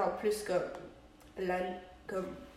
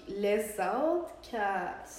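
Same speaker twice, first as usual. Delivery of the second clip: "les Outcasts" said very slowly, word by word; slow, careful pronunciation; much slower than usual. Shown as a demonstration. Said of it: "Moi je dis les Outcasts". (« les Outcasts » prononcé lentement et distinctement)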